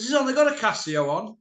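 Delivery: laughing through a mocking quote. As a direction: chuckle while quoting.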